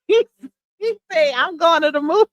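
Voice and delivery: cracking up mid-quote; real laughter. Real, not acted. Host repeats the son's choice of movies, laughing. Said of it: "That's why I'm laughing".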